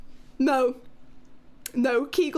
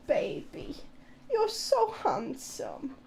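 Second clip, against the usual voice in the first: soft cooing; 3 semitones lower, 6 dB quieter, slower than usual. Real, not acted. Cooing to dog.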